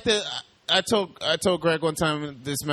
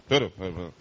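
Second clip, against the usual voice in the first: imitating a rambling stranger, pitch jumping; lightly voiced muttering train stranger; mumbling crazy man; 6 semitones lower than usual. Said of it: "walk around and be like".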